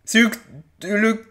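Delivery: high, loud doomed wailing; panicked shouting. Real, not acted. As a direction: yell in mounting alarm at the monster. Panics at the giant monster.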